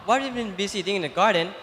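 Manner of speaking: quick, soft needling stranger; fast hushed sly stranger; scheming stranger. Acted. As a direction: goad him in a hurry. Stranger stirs up Dog.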